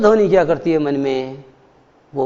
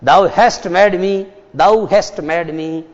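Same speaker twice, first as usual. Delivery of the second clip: slow, drawn-out recital; poetry recitation; 2 semitones lower, much slower than usual. Shown as a demonstration. Teacher reciting Gitanjali to students, very slow recital. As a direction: recite Tagore's line very slowly. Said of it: "Tagore ने अपनी गीतांजलि की पहली कविता".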